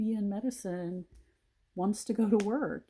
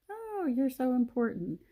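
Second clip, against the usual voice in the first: sarcastic mock praise; 6 semitones higher than usual. Mocking sudden praise for nurses.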